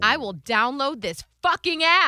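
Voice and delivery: grudging retold retort; heated retort. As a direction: give in, fuming. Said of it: "I got f-, hot".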